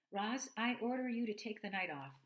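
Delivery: loud, high laughing order. Acted. Father joking with the robot, laughing and loud. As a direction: say it through a chuckle. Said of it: "Mister Sharif laughed".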